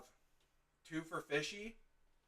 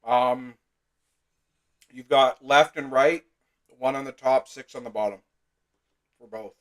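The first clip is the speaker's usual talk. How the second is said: mouth full; 6 dB louder than usual. Real, not acted. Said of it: "shoving some food in my mouth".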